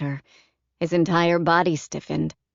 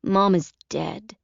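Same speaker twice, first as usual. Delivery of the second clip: put-on blunt child; 2 semitones higher than usual. A narrator's reading.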